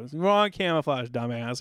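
slow, teasing put-down; mock the soldier fondly, drawn out; a hint of teasing sergeant; joking insult. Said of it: "just joking me".

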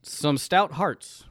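slowly spelling it out; slow and clear. Shown as a demonstration. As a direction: say each word slowly and clearly. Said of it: "Some what?".

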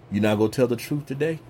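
low, quick divine challenge; God's voice, low and fast; voicing God. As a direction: quote God's blunt question low and fast. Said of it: "how you gonna say it like that".

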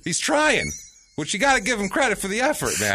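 high excited cheer. Real, not acted. Cheering on the poodle.

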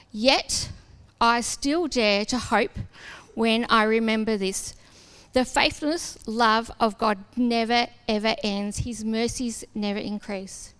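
slow, measured Bible reading; slow reading of a Bible verse to the listeners; scripture reading. Acted. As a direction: read the verse slowly and reverently. Reads verse from Lamentations.

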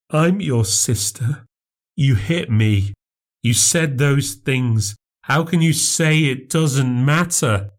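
lightly voiced sister, hurt. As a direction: plead with your sister slowly. Claire pleading, hurt.

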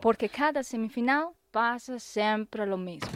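a hint of a sombre Mourinho press conference; host mimics the coach's bitter questions; lightly voiced Mourinho asking why; Mourinho impression. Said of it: "habla Mou".

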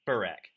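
"Burek" said as "buh-RACK", falling; correct pronunciation. Shown as a demonstration. Host correcting guest on his surname, demonstrating "Burek". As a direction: model "Burek" with weight on the second syllable. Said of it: "Try it again".

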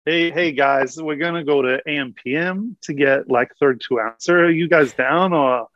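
a nervous Australian trying out an American accent. Shown as a demonstration. Australian guest attempting an American accent for the hosts. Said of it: "I'm gonna try it. What should I say?".

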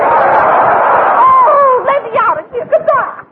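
huffy exit; offended huff. Acted. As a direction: flounce off in a huff. Vamp storms off offended.

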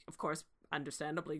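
ordinary delivery

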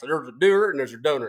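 mocking Southern-accented quote. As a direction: mimic him with a put-on Southern accent. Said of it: "I'm doing the Southern accent".

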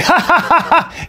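high-pitched imitation of someone laughing it off; hammed-up laugh, imitating a rich guy; mock laughter. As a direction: put on a high, carefree ha-ha laugh. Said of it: "For him, he'd be like".

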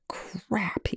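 unvoiced whispered curse. A narrator's reading. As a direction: breathe it out in a whisper. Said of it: "Eli whispered".

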